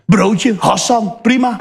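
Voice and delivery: slow, stretched "Broodje, Hassan"; drawn-out catchphrase. Retold or imitated. Comedian drawls his famous sandwich order. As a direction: drag the order out lazily. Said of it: "Wordt nagedaan op scholen".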